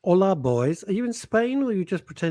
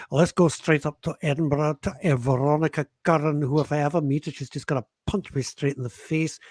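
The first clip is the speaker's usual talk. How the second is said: attempted Edinburgh accent slipping into Glasgow. Co-host imitating a Scottish greeting to Veronica in Edinburgh, Glasgow accent. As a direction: put on a rough-and-ready Glasgow accent. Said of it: "no, more Glasgow, wasn't it?".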